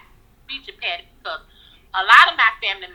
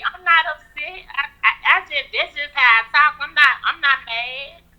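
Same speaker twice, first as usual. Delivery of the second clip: defensive denial; 4 semitones higher than usual. Pretend. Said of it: "why is she so angry".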